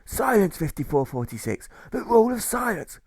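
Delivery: high, loud snorted order; angry pirate jailer snorting silence. Acted. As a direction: snort the rule out like a strict jailer. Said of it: "The jailer snorts and contorts as he slobbers".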